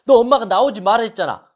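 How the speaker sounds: angry mother. Retold or imitated. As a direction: tell the child off for disobeying. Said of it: "화를 내고 짜증나는 거죠". (화내며 꾸짖는 엄마)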